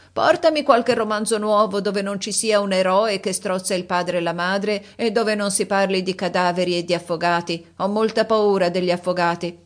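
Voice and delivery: a hint of a demanding old lady; fussy old countess. Countess ordering new novels, lightly voiced and fussy.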